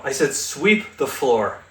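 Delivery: slow correction, leaning on "sweep"; deliberate emphasis on "sweep" for a misunderstanding listener; stress on sweep. Acted. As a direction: spell it out slowly, landing hard on "sweep". Correcting a robot that misheard.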